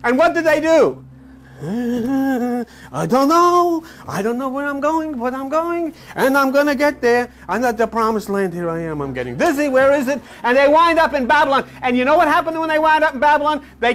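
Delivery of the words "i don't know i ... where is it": mock lost wanderer. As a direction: play the lost rock pilers, confused. Mocking wandering tribes' voice.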